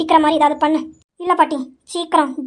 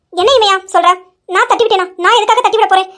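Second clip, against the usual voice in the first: louder indignant protest; defensive denial; 3 semitones higher, 4 dB louder than usual. Acted. Nethra protests her innocence to Ravi. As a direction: insist you did nothing.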